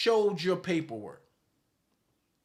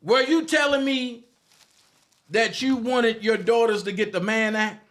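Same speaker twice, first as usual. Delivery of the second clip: higher, louder put-on Dabrowski voice; mock the man with a raised, pushy voice; 4 semitones higher, 4 dB louder than usual. Mocking a critic in a raised put-on voice. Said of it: "in my Dabrowski voice".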